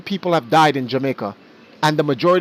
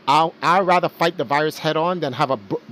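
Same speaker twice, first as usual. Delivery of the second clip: normal talking voice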